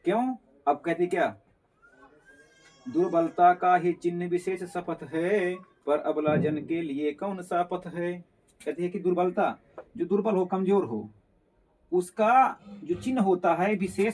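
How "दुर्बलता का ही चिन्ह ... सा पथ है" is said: slow, measured poem reading; slow classroom recitation of verse. Acted. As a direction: recite the couplet slowly, line by line.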